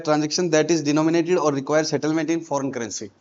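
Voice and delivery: reading the definition out word by word, very slowly; slow, deliberate textbook read; slow dictation. Shown as a demonstration. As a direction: spell it out so they can write it down.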